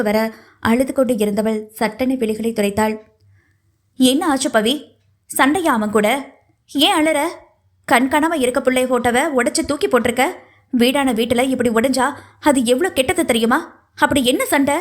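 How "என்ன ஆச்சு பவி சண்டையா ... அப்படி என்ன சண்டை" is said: a mother scolding her crying daughter, sharp and raised; teeth-gritted warning from an irritated mother; angry warning. Acted. Mother scolding daughter over the broken photo, raised angry voice. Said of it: "பற்களை கடித்து எச்சரித்து".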